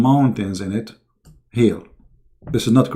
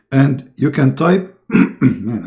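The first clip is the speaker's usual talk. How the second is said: hoarse, strained voice; losing voice; 3 semitones higher, 4 dB louder, much slower than usual. Real, not acted. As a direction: talk through a voice that's going. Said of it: "I lost my voice".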